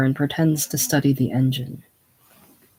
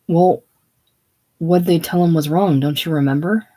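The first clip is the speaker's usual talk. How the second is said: shouting at her; 2 semitones higher, 6 dB louder than usual. Acted. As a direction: snap at her in rising panic. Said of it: "don't shout at me that way".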